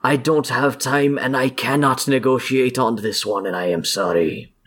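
lightly voiced villain refusing to bargain; firm in-character apology, then a claim; unyielding fey villain. Fey villain refuses to negotiate, understated firm role voice.

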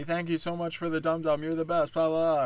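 put-on gushing kid. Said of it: "the kid's pawing at me".

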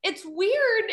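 put-on high, loud, quavery old lady voice; grandma grandpa voice. Shown as a demonstration. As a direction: talk like a creaky old grandma. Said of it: "I talk like this".

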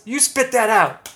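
high, loud, slow demanding voice; Irish guy punchline. Retold or imitated. Joke's Irish guy telling the fly to spit it out, high slow demand. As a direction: lean on it, ordering him. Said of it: "and he goes".

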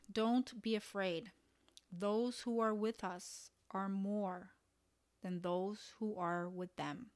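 slow, unhurried and reassuring, as if calming a frightened friend; a calm, slow prophet's reassurance; slow reassuring quote. Shown as a demonstration. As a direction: lean into the promise gently and slowly. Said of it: "I love that".

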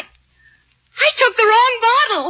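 slow, high, put-on whimpering panic; faked distress. Wife fakes poisoning to friend Daisy, hammed-up tearful panic. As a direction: pretend you swallowed poison, hammed-up. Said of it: "Helen, you were lying again".

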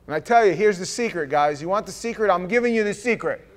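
rising excitement; building hype; loud. Real, not acted. Preacher building up to secret.

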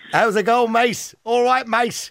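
high-pitched, badly faked Scouse; hammed-up Scouse greeting; bad Scouser accent. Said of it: "I can't do the Scouser accent".

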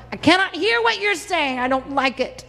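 high, fast, sneering crowd voice; mock them with a squeaky sneer; mocking mob. Preacher playing the angry mob who won't listen, shrill mockery.

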